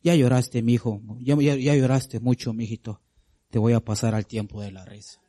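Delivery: tono tierno y paternal, un poco más grave; God comforting his child. Retold or imitated. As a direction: consuela como un padre que calma a su hijo que llora. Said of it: "Dios va a decir". (Dios consolando a su hijo con ternura paternal)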